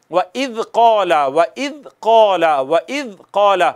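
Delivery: व इज़ कौला with a soft, unhissed ज़; soft zal. Shown as a demonstration. Teacher shows students a soft ज़ in व इज़ कौला. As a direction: say इज़ gently with no whistle on the ज़. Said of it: "जाल को नरमी से पढ़ेंगे".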